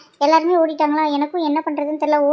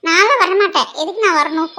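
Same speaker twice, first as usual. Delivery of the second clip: laughing refusal; 2 semitones higher, 3 dB louder than usual. Acted. Refuses to join the fight, laughing.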